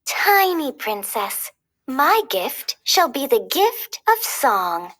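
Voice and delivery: slow, lightly voiced gentle fairy; a hint of a kind fairy, slow and tender; fairy blessing. Fauna blesses the tiny princess, slow and gentle. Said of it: "Fauna was next".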